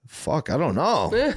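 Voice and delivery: slow, breathy whisper of doubt. Retold or imitated. Doubting himself to the guy who asked. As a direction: whisper it, lost for an answer. Unsure of his own voice.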